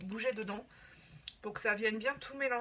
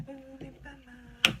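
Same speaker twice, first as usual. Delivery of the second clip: pleased, drawn out; 4 semitones higher, 7 dB louder, much slower than usual. Real, not acted. Repeats it higher, slow and loud.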